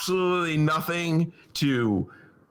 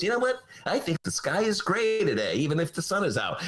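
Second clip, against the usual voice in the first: mock Mayor Daley; 4 semitones higher than usual. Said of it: "Mayor Daley wakes up and goes".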